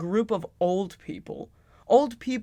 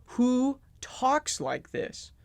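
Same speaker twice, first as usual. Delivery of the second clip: incredulous; 6 semitones higher, much slower than usual. Real, not acted. Incredulous at the game dialogue.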